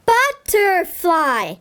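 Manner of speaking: slow syllable read. Shown as a demonstration. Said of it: "How many syllables does it have".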